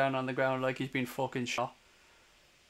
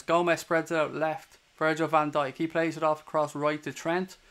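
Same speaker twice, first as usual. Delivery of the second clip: steady live match commentary; play-by-play. Acted. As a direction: call the game as it unfolds.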